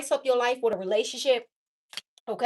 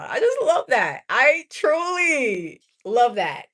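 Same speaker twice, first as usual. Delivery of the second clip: gushing; 3 dB louder than usual. Real, not acted. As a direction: really savor it. Savoring being single and free.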